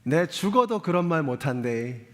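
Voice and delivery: put-on mild gruff Gyeongsang accent; lightly voiced blunt Gyeongsang husband; Gyeongsang version. Pastor imitates a blunt Gyeongsang husband refusing to say it, in a light Gyeongsang accent. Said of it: "경상도 버전으로 하면".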